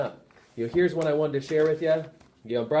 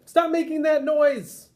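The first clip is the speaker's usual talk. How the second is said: much higher, louder, slow scolding; raised, slow reprimand; angry principal; 6 dB louder, slower than usual. Acted. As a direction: bark the order at the teacher. Principal storms in, scolds teacher.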